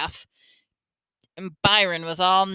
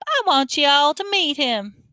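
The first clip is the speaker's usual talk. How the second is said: wicked witch; 5 semitones higher than usual. A narrator's reading. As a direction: toy with them like a wicked witch. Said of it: "just like a wicked witch".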